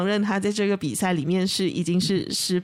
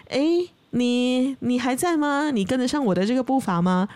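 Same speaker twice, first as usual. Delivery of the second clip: a mild mock call, pitched up, to the ground far below; eagle calling down; 4 semitones higher than usual. Eagle calls down from the sky, a mild raised call. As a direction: eagle shouting down to the snail, lightly voiced. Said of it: "他就，他就往这个地面上去喊".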